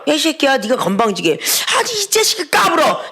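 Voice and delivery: 거칠게 나무라는 척하는 재연; 건방진 사람을 꾸짖듯 흉내; 꾸짖는 흉내. Retold or imitated. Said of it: "꾸짖는 건 뭐예요?". (가볍게 흉내 낸 호통)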